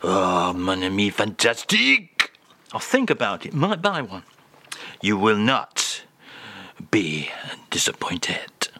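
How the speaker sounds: a lightly done voice with a French lilt, slowly; mock French. The speaker reads the French phrase to the host in a mock French accent.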